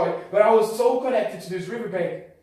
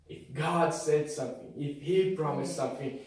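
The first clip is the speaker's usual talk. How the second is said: hushed preaching; 3 semitones lower than usual. Acted. Low intimate preaching.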